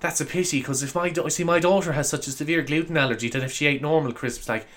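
softly voiced concerned customer; lightly put-on polite mum; customer's voice. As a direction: mimic a fussy mother, lightly. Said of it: "She went".

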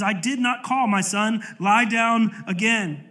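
a touch of tired annoyance, dragged slow; lightly voiced old priest, a bit fed up; mildly frustrated Eli. Eli woken again, sending Samuel back, mildly exasperated. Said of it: "He's a little bit more frustrated".

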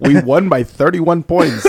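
slow, laughing through the words. Real, not acted. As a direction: laugh it out slowly. Laughing while mocking the fantasy fan.

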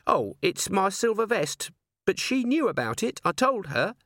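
high strained dwarf voice; a small high voice, barely holding on. A narrator's reading. Dwarf Cheery speaking.

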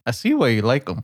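lightly put-on Hispanic accent. Podcaster voicing a girlfriend's mom for comedy, mock Hispanic accent. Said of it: "I gave her an accent".

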